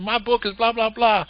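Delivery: high-pitched, eager mock boasting; imitating excited author. Conference attendee announcing their book to the speaker, imitated high excitement. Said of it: "they were all excited".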